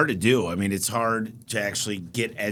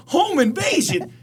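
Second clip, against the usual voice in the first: very high, slow disbelieving repeat; shocked echo; 4 dB louder, slower than usual. Retold or imitated. Comedian echoing buddy's answer, very high slow disbelief. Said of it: "he's like".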